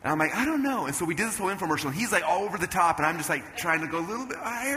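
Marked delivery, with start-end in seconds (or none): 0.4-0.8 high-pitched doubtful protest; retold uncertain squeak; unsure reply. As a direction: answer high, unconvinced.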